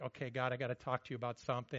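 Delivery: quick, low, offhand prayer to God; lightly voiced worshipper starting a prayer; casual prayer. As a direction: rattle it off like a casual chat with God. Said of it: "we're going to prayer, like".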